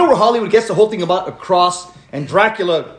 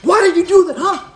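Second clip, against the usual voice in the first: imitating buddy; 5 semitones higher than usual. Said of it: "he's like".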